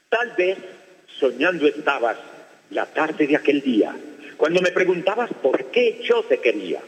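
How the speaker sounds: slow, lilting declamation of a love poem; poem recitation. Shown as a demonstration. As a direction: recite it like a school poetry contest. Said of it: "¿listo para declamar o no?". (declamación poética lenta)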